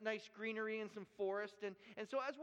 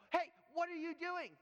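loud, higher angry call across the course; retold yell; 8 semitones higher, 4 dB louder than usual. Golf course worker yelling at the boy and uncle, loud. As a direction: yell at trespassers to stop them. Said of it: "starts to yell at us".

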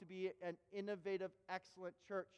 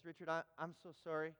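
subdued, halting, lower voice; apologetic confession; 4 semitones lower, 4 dB quieter than usual. Retold or imitated. Guest preacher apologizes to Richard from the front, subdued. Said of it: "he looks at Richard at the back of the room, and he says".

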